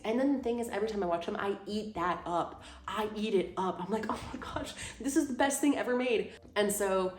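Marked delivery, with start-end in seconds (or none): 4.1-6.3 gushing. Retold or imitated. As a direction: lightly play up being swept away. Mock gushing over rom-coms she watches.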